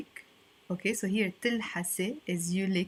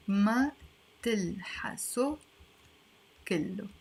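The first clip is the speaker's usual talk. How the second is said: slow syllable by syllable. Shown as a demonstration. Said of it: "let me write it here".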